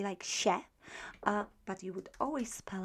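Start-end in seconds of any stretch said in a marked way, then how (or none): 0.2-0.6 "się" short, as plain "sheh"; very quick ending. Shown as a demonstration. Teacher showing quick pronunciation, short "sheh" for "się". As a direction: clip "się" without any nasal tail. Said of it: "you can pronounce it very quickly".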